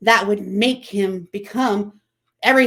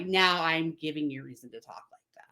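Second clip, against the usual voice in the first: whispered threat; 2 semitones lower, 6 dB quieter than usual. Retold or imitated. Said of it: "the next comment was".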